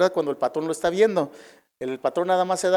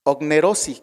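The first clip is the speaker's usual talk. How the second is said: ognerosi with the second O stressed. Shown as a demonstration. Preacher teaching a Greek word, ognerosi stressed on second O. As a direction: lean on the last O in ognerosi. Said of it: "acento en la segunda O".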